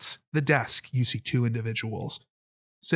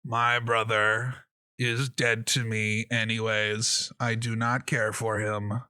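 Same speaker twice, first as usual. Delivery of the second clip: put-on slow, drawn-out old giant; lightly voiced old man, slow and cold; dismissive old giant; slower than usual. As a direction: disown him ponderously. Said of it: "and he says".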